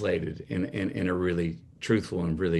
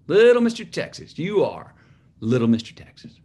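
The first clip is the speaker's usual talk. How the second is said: much higher and louder, gushing proud mom; 6 semitones higher, 6 dB louder than usual. Retold or imitated. Mom at breakfast praising her son, high gushing pride. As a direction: crow it like a beaming mother. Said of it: "she'd say".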